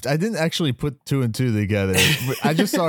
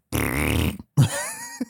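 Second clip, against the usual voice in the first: Herman's laugh; 11 semitones lower than usual. Retold or imitated. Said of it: "He goes".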